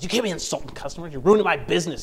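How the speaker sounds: mildly angry scolding, rising in force; acted indignant telling-off; mock chewing-out. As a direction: play an exasperated owner telling off a pet. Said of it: "starts chewing that parrot out".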